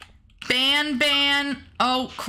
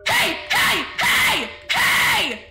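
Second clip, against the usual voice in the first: excited squeals; 12 semitones higher than usual. Real, not acted. Excited at a new follow.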